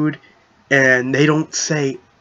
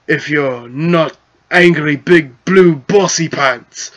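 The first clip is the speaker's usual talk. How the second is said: goblin chief voice; 2 semitones higher, 4 dB louder than usual. Acted. Voicing goblin chief dialogue.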